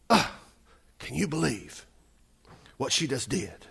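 hushed, scandalized disbelief; mock indignant. Preacher voices the disciples scolding the woman, indignant. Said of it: "said to themselves indignantly".

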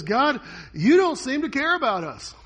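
crying out. Retold or imitated. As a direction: throw the complaint up at heaven. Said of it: "So Habakkuk cries out".

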